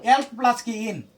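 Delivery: "অ্যালক প্লাস কি ইন" in separate parts; quiz-like breakdown, "অ্যালক প্লাস কি ইন"; word parts separated. Shown as a demonstration. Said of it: "ইন উচ্চারণ আছে না".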